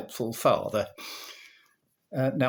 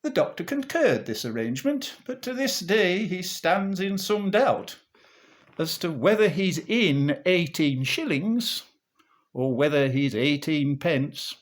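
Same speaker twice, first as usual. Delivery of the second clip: rhythmic music-hall monologue delivery; comic verse recitation. Acted. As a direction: recite it like an old comic monologue, bouncing on the rhyme.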